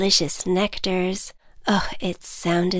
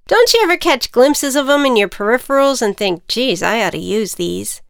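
higher, louder teasing ant; 3 semitones higher, 6 dB louder than usual. Acted. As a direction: needle her playfully. Ant character voice.

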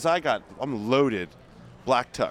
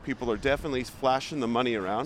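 tour host commentary. Pretend. Hosts a street tour.

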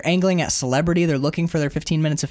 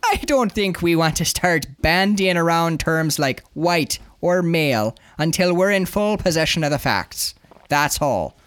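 put-on Irish sergeant, officious; careful statement in an Irish accent. Sergeant correcting reporter, officious Irish accent. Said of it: "He's been named Irish".

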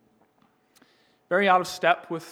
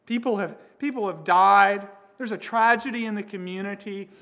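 higher, quicker indignant complaint; outraged protest; 4 semitones higher, 5 dB louder than usual. Acted. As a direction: protest in disbelief. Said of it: "might be outraged with Jesus".

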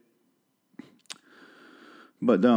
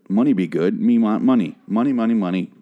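caveman voice. Acted. Caveman talk for money.

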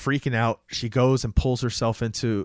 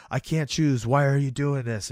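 mildly panicked retold plea, a little higher; freaking out; 3 semitones higher than usual. Woman begging the killer on the phone, mock panic. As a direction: imitate a distressed woman pleading. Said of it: "And she's freaking out".

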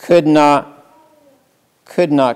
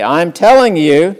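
firm parent warning; 4 semitones higher, 6 dB louder than usual. Retold or imitated. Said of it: "you as a parent when you're speaking to your child and you say".

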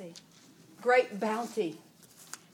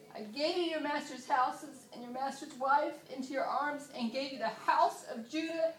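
a lightly voiced gracious God, higher; voicing God, gracious; 5 semitones higher than usual. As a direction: give God's words with gentle mercy. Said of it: "listen to God's grace and mercy".

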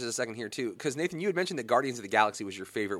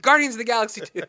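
higher and louder, bursting into a laugh; laughing admission; 11 semitones higher, 9 dB louder than usual. Retold or imitated. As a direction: own up to it through a laugh. Sheepish answer to his wife.

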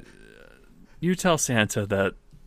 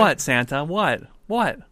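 put-on eager boy; 4 semitones higher, slower than usual. Eager boy asks Santa.

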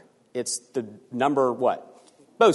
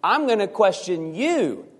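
raised voice, God challenging Job; stern God rebuking; 6 semitones higher than usual. Acted. God rebukes Job, demanding answers, raised and stern. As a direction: thunder it down at the questioner.

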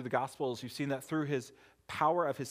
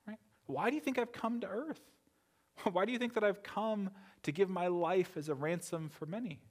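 wry Jesus; 4 semitones higher than usual. Retold or imitated. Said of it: "wryly smiles that question and says".

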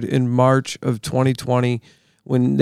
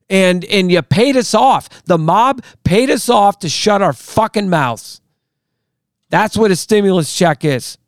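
heated, pitch climbing, real anger; angry rant; 5 semitones higher than usual. Real, not acted. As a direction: rant it out, getting worked up. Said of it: "I'm sorry I'm angry".

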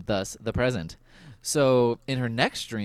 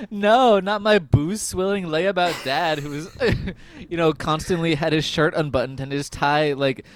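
mock dismay; 4 semitones higher, 4 dB louder than usual. Acting daughter's dismay at dad's death.

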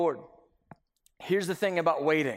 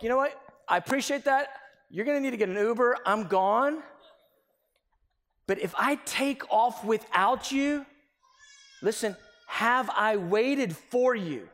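exasperated; 4 semitones higher than usual. Retold or imitated. Exasperated driver leaving.

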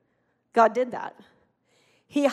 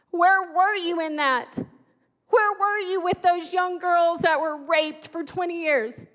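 anguished anger; 5 semitones higher, 4 dB louder than usual. Retold or imitated. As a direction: cry out at God through grief. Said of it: "I was so mad".

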